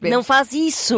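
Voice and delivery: "isso" with a slushy sh instead of s; "faz" and "isso" lisped into a wet sh. Shown as a demonstration. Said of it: "É falar assim".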